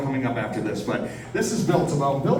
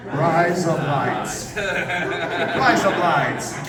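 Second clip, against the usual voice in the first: Australian accent; 2 semitones higher, much slower than usual. Shown as a demonstration. Host landing the razor blades joke, Australian accent. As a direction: rise up lights blurred into razor blades. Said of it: "What do men shave their faces with?".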